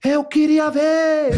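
high, loud, very drawn-out wail; mock shout. Man imitates girl shouting she wanted to see: high drawn-out shriek. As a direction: shriek it slowly like she did. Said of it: "Ela gritava".

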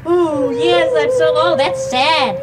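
hammed-up moaning sadness; acted sad. Shown as a demonstration. Coaxing the dog along in sadness, mock sorrow. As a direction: make a show of being sorrowful. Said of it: "teach you how to act sad too".

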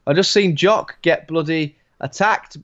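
lightly put-on Swedish accent telling mates. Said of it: "is that your Swedish accent you're doing there".

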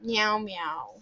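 rapid chain of meows, rising high; insistent meowing. Pretend. Meerkat player drowning out a friend, meowing insistently. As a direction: meow on and on over someone.

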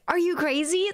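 high incredulous question; mock incredulous. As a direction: ask it in mock disbelief. People quoted asking.

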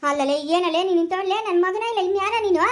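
high, loud indignant questioning; indignant challenge. Acted. Asking whose son he is then, indignant. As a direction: confront them, pitch climbing.

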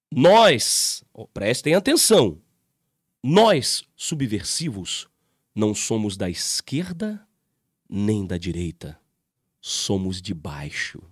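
drawn-out recital of the comment; slow mocking read. Shown as a demonstration. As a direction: read each word out slowly to expose it. Reading the comment out aloud.

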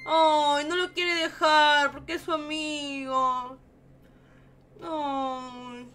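slow, heartbroken whine; a punto de llorar. Real, not acted. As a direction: drag out the words in pity. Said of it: "ya me estaba poniendo a llorar". (quejido triste y alargado, casi llorando)

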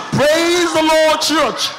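drawn-out pastor's greeting to the church; preening pastor. Acted. Pastor just entering with fresh hair, stretched-out greeting. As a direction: stretch the praise out slowly, then land on church. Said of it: "wey the pastor dey sound like this".

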